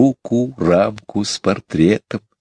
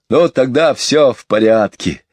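a touch of tearfulness, raised pitch; trembling voice; 5 semitones higher than usual. Acted. Michael takes comfort in the message, mildly trembling voice. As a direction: bravely reassure yourself, slightly wavering. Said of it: "дрожащим голосом проговорил Майкл".

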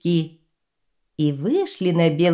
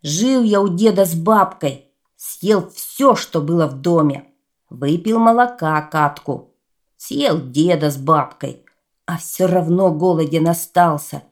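lightly voiced boastful giant; a hint of a greedy boaster; greedy clay boy voice; 4 dB louder than usual. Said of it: "давай ему рассказывать".

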